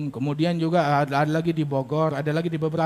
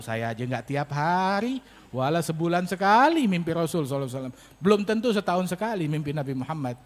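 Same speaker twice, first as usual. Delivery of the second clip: sheepish, lowered admission; retold embarrassment; 2 semitones lower than usual. Embarrassed cleric admitting he rarely dreams so, mildly sheepish. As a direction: admit it abashed, drawing out the first words. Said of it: "Itu Ustadz malu".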